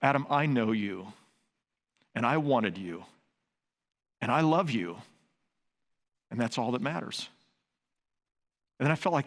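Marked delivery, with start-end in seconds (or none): 0.0-7.3 God's gentle voice. Retold or imitated. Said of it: "this is what I heard it say".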